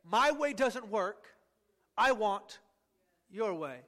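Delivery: slow, sincere surrender; willing surrender. Retold or imitated. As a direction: give it up slowly and willingly. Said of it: "I willingly say".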